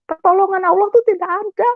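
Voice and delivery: high-pitched, hurt accusation; pained complaint, pitched well up; tearful angry protest. Retold or imitated. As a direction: reenact accusing God through tears. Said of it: "Saya nangis, saya marah".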